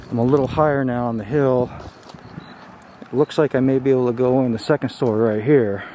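normal talking voice

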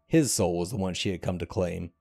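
measured, dramatic storytelling read; story narration. A narrator's reading. Narrator telling a game's myth to viewers, dramatic storytelling. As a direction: draw the listener into a dark fantasy tale. Reads a fantasy story aloud.

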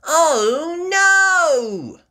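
whispered high gasp of dismay. Acted. Peppa finding the mixture gone, gasping whisper. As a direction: gasp it out in shock. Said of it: "gasps Peppa".

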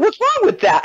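imitating the guy from Georgia; mock innocent guy. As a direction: play him baffled. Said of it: "He's like".

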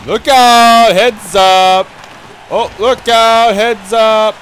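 loud calls across the ice; shouting warnings. Real, not acted. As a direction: yell the warning sharply.

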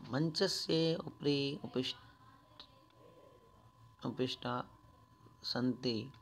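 very slow, word by word; slow re-reading. Shown as a demonstration. Teacher slowly re-reading the Sanskrit for children, word by word. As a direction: spell the phrase out slowly for pupils.

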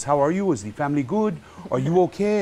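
animated, high-pitched concerned caller. Retold or imitated. Voicing cooper's concerned phone call.

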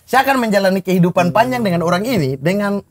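sincere, softened telling; serious, heartfelt version. Shown as a demonstration. Groom explaining why he chose his witnesses, serious and heartfelt. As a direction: give the touching version in earnest. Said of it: "Versi serius nih, harunya ya".

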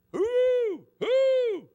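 high, loud hooting owl call. Retold or imitated. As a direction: hoot back like an owl. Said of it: "like an owl".

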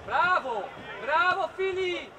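slow, loud, drawn-out bravo; loud praise. Real, not acted. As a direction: cheer the player's good play. Coach praising a play.

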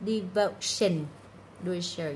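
"Devotion" with -tion said as "shun"; sh sound in -tion. Shown as a demonstration. Teacher contrasting endings for students, "Devotion" with a sh sound. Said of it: "âm này nó sẽ là âm trừ".

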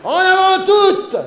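loud, high, slow bawled command; bawled order. A narrator's reading. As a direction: roar the order to the crew. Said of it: "Brailla le capitaine Igloo de sa grosse voix". (ordre braillé, fort et lent)

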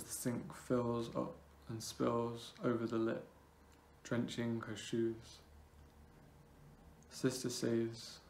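measured poem reading with long pauses between phrases; spaced-out, deliberate poetry recital. Acted. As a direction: recite it line by line, letting each phrase hang. Reads own poem aloud.

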